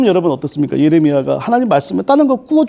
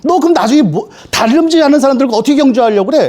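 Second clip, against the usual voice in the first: mock divine telling-off, pitched higher; scolding; 4 semitones higher than usual. Preacher voices God scolding Jeremiah, higher-pitched mock reprimand. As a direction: scold with pointed rhetorical questions, lightly acted. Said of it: "하나님이 오히려 혼내죠".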